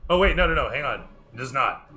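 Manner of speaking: ordinary talk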